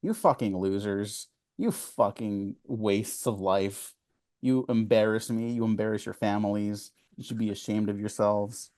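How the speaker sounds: slow, drawn-out dressing-down; scornful scolding. Acted. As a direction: spell out the insults slowly, without shouting. Scolding fans in imagined reply.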